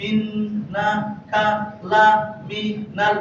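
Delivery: very slow, each syllable drawn out separately; slow syllable demo. Shown as a demonstration. Quran teacher showing the class each syllable, very slow. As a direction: spell the verse out slowly, syllable by syllable. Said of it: "আবার বানানো উচ্চারণ".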